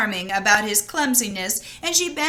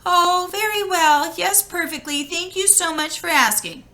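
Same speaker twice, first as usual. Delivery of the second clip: put-on polite girl; 6 semitones higher than usual. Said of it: "Not wanting to be rude".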